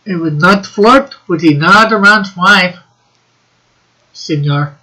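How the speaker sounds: put-on light joking Mexican accent; lightly put-on Mexican accent.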